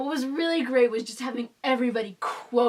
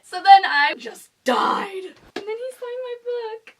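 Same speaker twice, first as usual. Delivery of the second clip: excited; 9 semitones higher, 8 dB louder than usual. Retold or imitated. Retelling the star liked her shirt.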